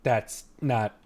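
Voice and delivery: lightly acted dad demanding answers; stern, disbelieving father. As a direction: press her word by word. Father pressing daughter for answers.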